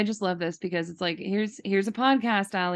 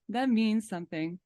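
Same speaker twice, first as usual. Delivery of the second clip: laughing; 4 dB quieter than usual. Real, not acted. Repeating line while laughing.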